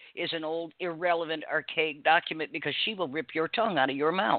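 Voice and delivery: ordinary talk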